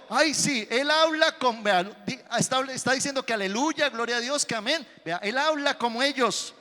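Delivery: lightly voiced maid telling on him; a hint of a snooping busybody; gossiping servant girl. Servant girl accuses Pedro.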